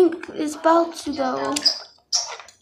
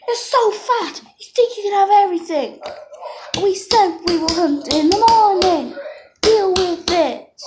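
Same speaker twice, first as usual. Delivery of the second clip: scolding; 2 semitones higher than usual. Pretend. Parent dino scolding greedy pup.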